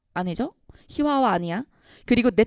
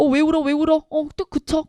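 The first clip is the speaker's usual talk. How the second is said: startled, higher-pitched questioning; 6 semitones higher, 4 dB louder than usual. Acted. Older brother startled by his little brother crying, startled. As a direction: ask it louder, taken aback. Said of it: "너무 놀라".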